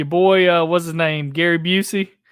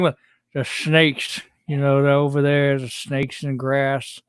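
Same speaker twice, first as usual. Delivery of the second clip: Danny Glover teeth; 3 semitones lower than usual. Retold or imitated. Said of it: "he talks with his teeth really heavy now".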